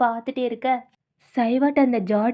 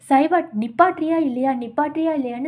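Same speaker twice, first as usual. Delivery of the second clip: mock yell, louder, to make him stop; retold yell; 2 semitones higher, 4 dB louder than usual. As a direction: shout to stop him, half acted. Kun begs Saivat to stop.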